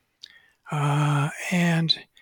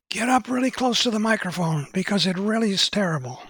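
mock-earnest tip, voice raised in pitch; insistent warning; 4 semitones higher, faster than usual. Little man behind the podium warns the speaker, insistent.

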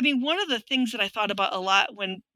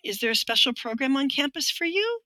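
condescending tone; 5 semitones higher than usual. Retold or imitated. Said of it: "In that tone of voice".

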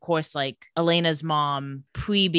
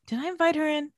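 retold worry; 9 semitones higher than usual. Jeremy worries he invited a vampire.

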